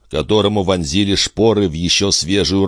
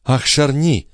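higher exclaiming queen's voice; 8 semitones higher than usual. A narrator's reading. Queen exclaims Charny's name in a higher voice. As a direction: sigh out his name as the queen. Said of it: "воскликнула в ответ королева".

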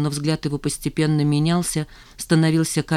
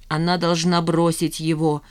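usual speaking voice

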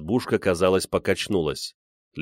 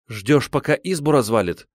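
sharp, higher-pitched reproach; scolding; 5 semitones higher than usual. A narrator's reading. Wife rounds on husband as the bear breaks in, scolding. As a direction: lay into him. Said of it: "набросилась на мужа".

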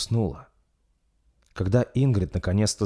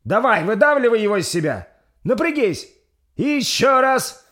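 put-on shouting old midwife; 7 dB louder than usual. Midwife urging the push.

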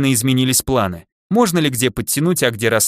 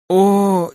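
drawn-out groan, pitched up; тихий стон; 7 semitones higher, 3 dB louder than usual. A narrator's reading. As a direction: groan in weary dismay. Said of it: "тихонько застонал гном". (протяжный стон гнома)

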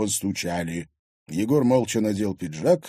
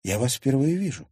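higher, mildly bewildered statement; puzzled denial; 4 semitones higher than usual. Acted. Girl telling strangers she doesn't know them, puzzled. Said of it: "ещё больше удивилась Лиза".

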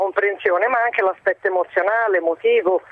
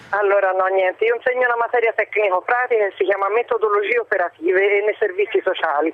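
over the phone. Real, not acted. Teacher caller speaking by phone.

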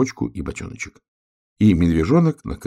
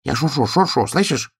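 high, raised hedgehog voice; calling out; 8 semitones higher, 3 dB louder than usual. A narrator's reading. Hedgehog answering bear cub over drumming rain, calling. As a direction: call across in a high voice. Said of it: "кричал ёжик".

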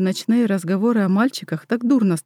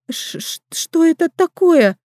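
higher, slow, stammered fear; stammering fright; 9 semitones higher, slower than usual. Acted. Midwife sees the glowing belly, stammering in fear. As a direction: stutter the question in terror. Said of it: "заикаясь".

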